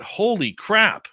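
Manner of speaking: high, loud, drawn-out burst of shock; stunned exclamation. Retold or imitated. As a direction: blurt it out, floored by what you just saw. Stunned at seeing spirit leave.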